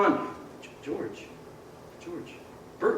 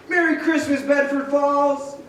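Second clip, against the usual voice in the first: joyful shout; 5 semitones higher than usual. Acted. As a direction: call it out to the whole town. George shouting greetings through town.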